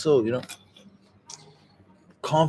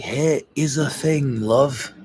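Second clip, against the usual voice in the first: put-on Scottish accent; much slower than usual. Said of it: "Hey, it's from Scotland".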